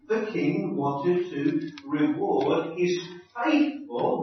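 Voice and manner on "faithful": faithful pressed a little, said with weight; stress on faithful. Shown as a demonstration. Preacher flagging a key word to the congregation, stressed. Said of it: "note that word".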